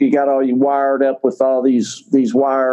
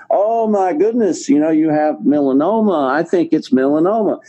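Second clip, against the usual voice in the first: excited doctor; 2 semitones higher than usual. Retold or imitated. Dermatologist blurts a diagnosis to his patient, mock excited. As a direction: imitate a worked-up doctor, drawing out the first words. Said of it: "he got all excited".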